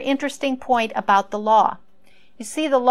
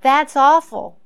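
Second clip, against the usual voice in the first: shocked; 5 semitones higher, 9 dB louder, slower than usual. Retold or imitated. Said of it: "and I thought".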